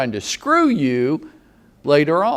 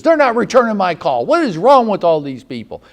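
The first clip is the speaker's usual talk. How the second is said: mock pissed-off agent; 4 dB louder than usual. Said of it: "listing agents that get so pissed off".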